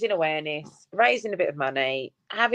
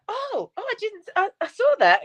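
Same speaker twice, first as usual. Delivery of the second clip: mock shock. Retold shock at the schedule.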